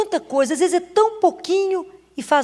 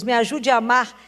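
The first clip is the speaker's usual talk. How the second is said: quiet prayer; 2 semitones lower than usual. Retold or imitated. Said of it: "a gente fala com Jesus".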